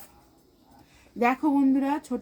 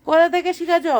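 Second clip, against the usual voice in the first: amazed; 7 semitones higher, 7 dB louder than usual. Real, not acted. Marveling at mother's speed.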